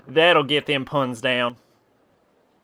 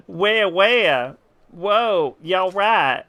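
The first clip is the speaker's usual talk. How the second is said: fake Southern accent. Reading game lines to the tree man in a mild fake Southern accent. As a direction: play it with a put-on Southern twang, only a hint. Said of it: "very fake Southern accent that I have decided to put on".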